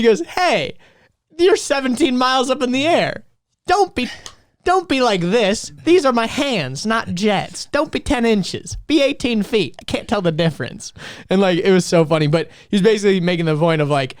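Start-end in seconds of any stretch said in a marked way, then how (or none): 0.2-10.9 joking pilot impression. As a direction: play the pilot joking around. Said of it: "he goes".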